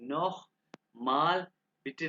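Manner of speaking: "नोह" ending in a throaty kh, word by word; spaced-out "नोह माल बिटे" with ch as kh; German ch demonstration. Shown as a demonstration. Teacher modelling a German phrase for students, careful pronunciation. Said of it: "इसको खे के बाद निकालेंगे".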